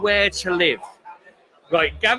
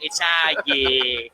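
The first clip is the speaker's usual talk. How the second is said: slow, drawn-out fan shout; Liverpool football fan; 5 semitones lower, much slower than usual. Retold or imitated. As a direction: belt it like a terrace chant. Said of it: "that's my impression of a Liverpool football fan".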